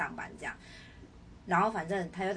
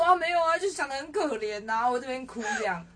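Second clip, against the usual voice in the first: laughing through tears; 5 semitones higher, 6 dB louder than usual. Retold or imitated. Answering the coworker, laughing through mock tears. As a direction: laugh while admitting you cried. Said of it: "然后我说".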